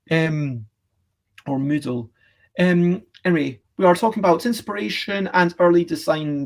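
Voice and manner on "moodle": "Moodle" with OO in the first syllable; trying another pronunciation. Shown as a demonstration. Unsure how a guest's name is pronounced, "Moodle" with OO. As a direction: offer "Moodle" as an alternative, with OO. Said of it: "is that how you pronounce it".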